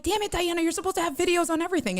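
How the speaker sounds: mock exasperation. Retelling his scolding of Diana, in mock exasperation. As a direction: play up the fond frustration.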